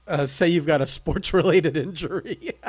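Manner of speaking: chuckling through the words; half-laughing suggestion. Real, not acted. Joking suggestion while laughing.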